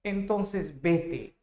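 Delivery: a hint of a spoiled girlfriend; lightly voiced sulky girlfriend. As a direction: push him away with a pout. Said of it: "Y ella hincha su cachete".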